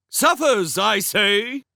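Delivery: high, loud, overacted villain cry; dramatic. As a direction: ham up the menace theatrically. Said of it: "Prince Ludovic said dramatically".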